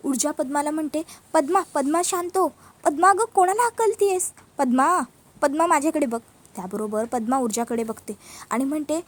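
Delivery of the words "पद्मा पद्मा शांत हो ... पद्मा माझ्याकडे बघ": urgent calling. Acted. Sister calls to panicking Padma.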